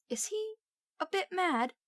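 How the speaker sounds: unsure, half-afraid to ask; uncertain. A narrator's reading. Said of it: "he asked Percy uncertainly".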